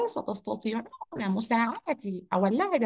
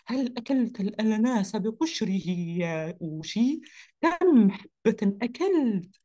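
surprised question; 3 semitones lower than usual. Acted. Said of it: "فسألوه بدهشة".

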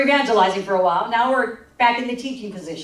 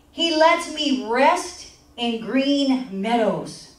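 scripture reading; much slower than usual. Acted. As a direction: read it out slowly and reverently.

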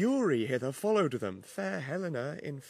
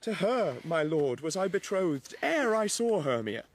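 loud earnest declaration; 5 dB louder than usual. Acted. Demetrius declares his love.

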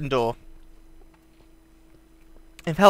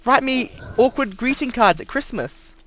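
high, loud frantic pleading; exasperated yelling; 7 semitones higher, 3 dB louder than usual. Real, not acted. Yelling at attacking spider.

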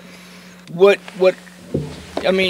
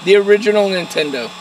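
repeated louder for the listener; 3 semitones higher, 4 dB louder than usual. Real, not acted. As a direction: say it again so they hear. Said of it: "Speak louder, I can't hear you".

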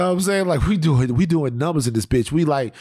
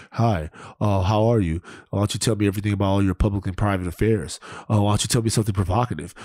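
paparazzo impression; 4 semitones lower, faster than usual. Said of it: "he goes".

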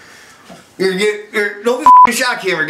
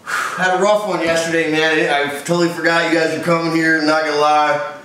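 hungover; 3 semitones lower than usual. Acted. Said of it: "I'm so hungover".

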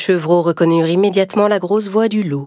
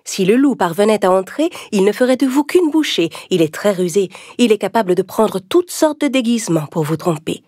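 mother goat; 3 semitones higher than usual. Acted. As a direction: speak as a caring mother warning her kids. (voix de maman chèvre attentionnée)

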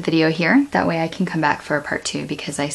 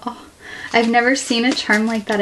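ordinary delivery

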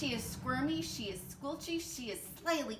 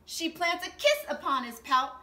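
gasp, then louder and higher, amazed; surprised gasp; 5 semitones higher, 6 dB louder than usual. A narrator's reading. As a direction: tell it with a gasp of wonder.

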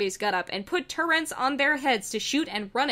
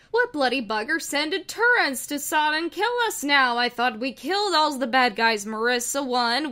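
questioning Wheatley; 3 semitones higher than usual. Acted. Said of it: "Wheatley questioned".

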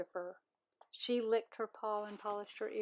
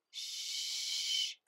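teacher hushing whisperers; shush. Acted. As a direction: hush the class.

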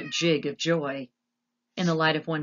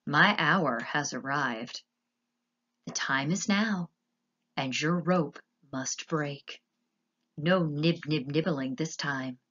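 slow, menacing gloating monologue; deliberate, sinister rat voice; scheming villain rat. Acted. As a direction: savour each word as you plot revenge.

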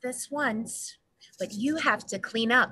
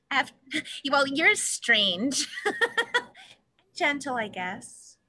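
laughing shyly; slower than usual. Acted. Woman teased by odd man.

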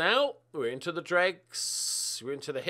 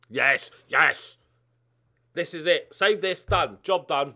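excited celebration; 8 dB louder, slower than usual. Real, not acted. Celebrating a save.

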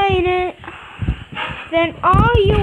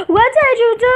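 crying out; 4 semitones higher than usual. Acted. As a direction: plead through tears. Despairing after losing money.

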